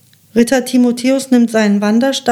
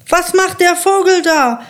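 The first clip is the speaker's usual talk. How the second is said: storybook shouting; 7 semitones higher than usual. A narrator's reading. Count sees the eagle coming, storybook shout. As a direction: cry out in a higher voice, as a narrator would. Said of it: "schreit der Graf".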